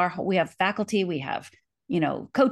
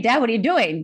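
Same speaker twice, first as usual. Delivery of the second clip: retold screaming; 4 semitones higher, 4 dB louder than usual. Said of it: "I start screaming".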